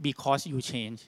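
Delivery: imitating halting, drawn-out English; very slow speech. Shop owner answering the CEO in limited English, very slowly. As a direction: spell it out very slowly, word by word. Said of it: "เจ๊คนนี้พูดช้ามากเลย".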